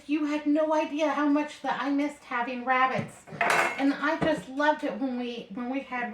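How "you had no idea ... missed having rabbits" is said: lightly voiced old mother-in-law. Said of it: "She said".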